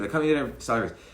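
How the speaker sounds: just echo his words back, no emotion, dropping the volume; no emotional inflection. Shown as a demonstration. Negotiator mirroring the boss's words back, no emotional inflection. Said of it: "You just repeat it".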